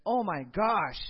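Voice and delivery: fed-up cry in a retold quarrel; exasperated. Acted frustrated phone quarrel.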